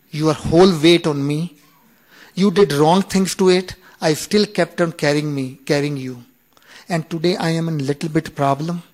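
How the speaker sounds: the back finally airs its grievance; aggrieved back complains. Retold or imitated. His back scolding him for fifty years, rising indignant. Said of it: "talking to me".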